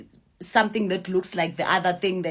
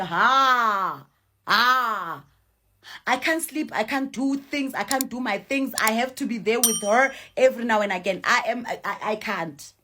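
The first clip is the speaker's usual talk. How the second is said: exasperated grandmother; 3 semitones higher than usual. Retold or imitated. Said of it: "that one was just straight up".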